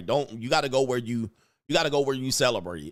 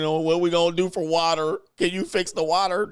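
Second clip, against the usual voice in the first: mock pleading, higher and louder; begging voice; 5 semitones higher, 4 dB louder than usual. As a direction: whine like someone begging for help.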